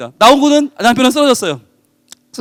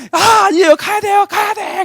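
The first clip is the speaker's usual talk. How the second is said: much higher, frantic insistence; desperate husband; 10 semitones higher than usual. Acted. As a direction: break free, you must go in. Husband refuses to be held back.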